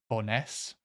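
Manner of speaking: "Bowness" with the weight on "ness"; stress on second syllable. Shown as a demonstration. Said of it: "stress is always on the second syllable".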